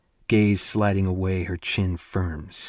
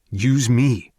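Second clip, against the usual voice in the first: blurted out; 2 semitones higher, 4 dB louder than usual. Acted. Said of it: "I blurt out".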